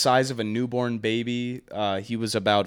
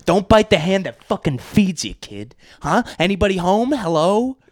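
calling down a hallway; 10 semitones higher, 13 dB louder than usual. Acted. Angry parent yelling at kid.

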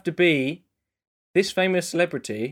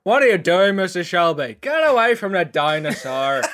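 louder warning to a character; acted shout; 2 semitones higher, 4 dB louder than usual. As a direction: call out in alarm, acted. Acted film scene line.

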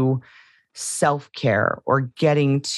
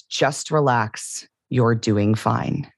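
slow, gentle reassurance; slow tender mantra; soothing lyric; 4 semitones lower, slower than usual. Shown as a demonstration. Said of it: "one of the lyrics is".

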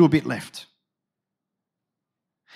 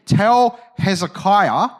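slow, condescending command; haughty, drawn-out order; slower than usual. Acted. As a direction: talk down to them, drawing the words out. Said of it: "condescending language".

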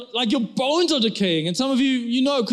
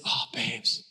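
loving husband; 4 semitones lower, slower than usual. Retold or imitated. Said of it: "looks at her lovingly and says".

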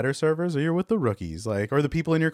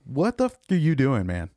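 exasperated boss chewing out a server, voice pitched up; retold angry telling-off; 3 semitones higher than usual. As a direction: snap at a clumsy underling, not fully shouted. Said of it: "they will yell at you".

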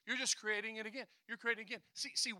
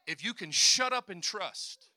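slow, louder shut up and trust; blunt emphasis; 7 dB louder, slower than usual. Shown as a demonstration. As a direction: lean on shut up, slowly. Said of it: "I feel to say it like that".

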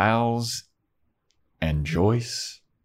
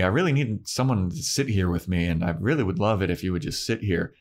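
put-on lightly raised, quick teen plea; mock Buffy; 4 semitones higher, faster than usual. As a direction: play the daughter begging mom to stay. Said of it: "And then Buffy's like".

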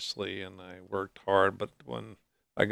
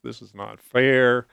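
slow, louder anguished plea; crying out to God; 3 semitones higher, 6 dB louder, slower than usual. Retold or imitated. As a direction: retell the protest as if crying out again. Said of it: "I was crying out loud to God".

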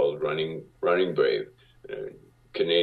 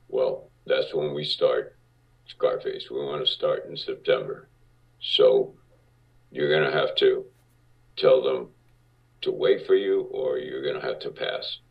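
much lower, gruff producer voice; Marty Bregman's deep voice; 4 semitones lower than usual. Retold or imitated. Producer sizing up a young actor, lower deep voice. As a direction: drop low and heavy like a big-shot producer. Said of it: "he had a deep voice like this".

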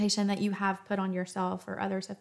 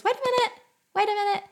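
much higher, louder, stopping someone mid-step; caring interruption; 11 semitones higher, 4 dB louder, much faster than usual. Acted. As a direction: catch them before they rush off, gently insistent. Someone stopping you to ask.

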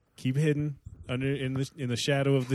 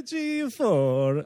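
higher, slow mock Italian; Italian cable man; 4 semitones higher than usual. Co-host blurting another network, mock Italian accent. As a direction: stretch it out as a bad Italian. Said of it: "questions for our Italian cable man".

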